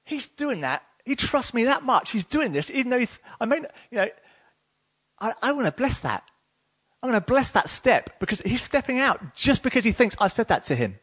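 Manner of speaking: lightly voiced doting God; melted heart. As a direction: marvel tenderly, as God moved by someone's trust. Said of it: "his heart melts".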